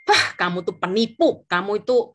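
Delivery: mildly heated mock scolding; retold angry accusation. Client calling the agent a fraud, mildly acted anger. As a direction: imitate an angry client, only a touch heated. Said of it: "dia marah-marahin saya".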